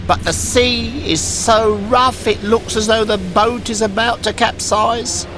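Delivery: high, urgent voice; worried old woman. Acted. An old woman tells Pinocchio of the boat, high and worried. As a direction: tell the danger breathlessly. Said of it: "an old woman".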